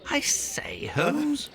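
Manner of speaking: hushed aside; whisper. Acted. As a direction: whisper it to Holmes.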